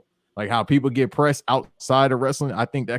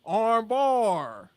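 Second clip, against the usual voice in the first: much higher-pitched cartoon white wrestler; white guy impression; 11 semitones higher, 5 dB louder than usual. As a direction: pitch it way up, hammed-up eager coach. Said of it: "they said a different, a different white guy".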